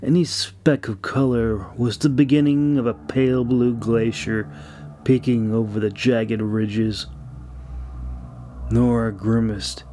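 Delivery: measured audiobook reading, lingering on descriptions; story narration. Acted. Author reading his fantasy chapter aloud to listeners, steady storytelling narration. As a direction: read it like an audiobook narrator setting the scene.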